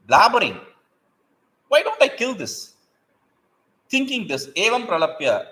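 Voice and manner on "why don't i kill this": menacing monkey. A narrator's reading. Monkey thinking of killing bird.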